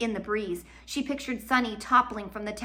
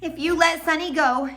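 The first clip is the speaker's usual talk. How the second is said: resigned plea; 9 semitones higher, 7 dB louder than usual. Acted. Violet surrenders.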